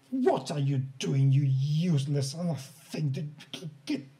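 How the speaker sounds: a stern old woman's call, lightly voiced; hint of a crotchety old woman shooing people; old woman scolding. Old woman scolding the crowd, lightly voiced.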